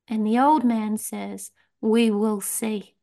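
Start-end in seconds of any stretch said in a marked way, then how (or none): 1.8-2.9 put-on calm old man. Old man's calm reply.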